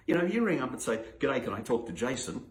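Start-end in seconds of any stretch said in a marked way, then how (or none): 1.2-2.4 plain phone caller. Retold or imitated. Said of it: "This is a true story".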